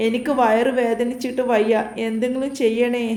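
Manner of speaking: lightly voiced crying plea, understated; a touch of put-on tears; fake tearful plea. Nilu begs her captor for help, mildly faked crying. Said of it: "Neelu കരഞ്ഞു പറഞ്ഞു".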